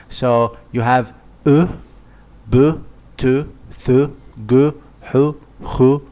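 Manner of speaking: each letter carefully said with a short u; letters with dhamma. Shown as a demonstration. Teacher reciting Arabic letters with dhamma, carefully pronounced. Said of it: "the u form with the dhamma".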